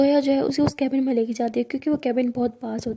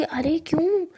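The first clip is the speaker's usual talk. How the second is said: whispered dodge; 3 semitones higher, slower than usual. Acted. Saniya dodging, whispered.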